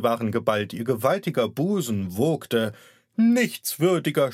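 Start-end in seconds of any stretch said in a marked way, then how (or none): 3.2-4.3 high, loud shriek of rage; screaming aunt. Acted. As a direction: scream it at the nephew from the bed. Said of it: "schrie sie". (schreiende Tante, hoch und laut)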